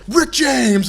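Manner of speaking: shouted high and loud like a wrestler's war cry; mock battle cry. Thor yelling a joke name as he swings the hammer, loud shout. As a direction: belt the name out as you swing.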